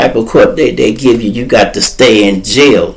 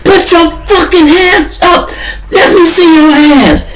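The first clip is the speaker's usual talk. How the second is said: cop yelling. Retold or imitated. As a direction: bark it like a cop drawing on you. Cops jumping out yelling.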